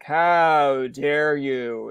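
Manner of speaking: drawn-out, indignant mock scolding; mock outrage. Imitating people on social media, mock outraged. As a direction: stretch it out like an affronted commenter.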